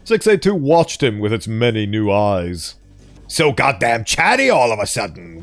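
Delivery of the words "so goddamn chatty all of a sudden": put-on light hillbilly accent, gruff and swearing; mild hillbilly grumble. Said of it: "compared to his hillbilly swearing and shouting".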